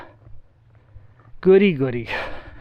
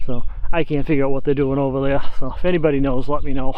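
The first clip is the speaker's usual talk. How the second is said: winded from the uphill climb; breathless while hiking uphill; out of breath. Real, not acted. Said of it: "if I sound out of breath".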